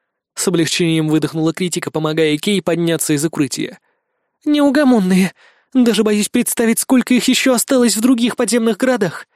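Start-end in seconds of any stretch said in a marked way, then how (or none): 4.5-9.3 higher, lightly put-on character voice; higher, weary voiced companion. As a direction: play the weary teammate a bit higher.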